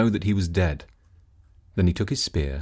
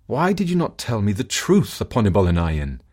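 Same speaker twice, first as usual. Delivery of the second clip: reproachful husband. Acted. Husband confronts wife.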